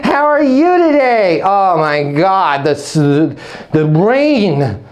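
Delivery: high, slow gushing small-talk voice; chatty small talk. Shown as a demonstration. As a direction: gush over the weather like a chatty leasing agent.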